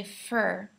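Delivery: for said as fur; for reduced to fur. Shown as a demonstration. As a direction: say fur, the vowel reduced to an er sound. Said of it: "we say fur".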